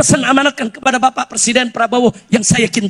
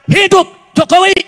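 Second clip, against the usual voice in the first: high, raised mock cheer; imitated rally cry; 6 semitones higher, 5 dB louder, slower than usual. Preacher mimicking those cheering for Jokowi, mock shout. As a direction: call it out like a supporter cheering. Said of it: "terus ada yang teriak".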